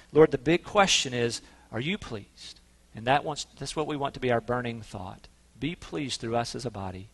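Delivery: reverent closing prayer to end the sermon. Real, not acted.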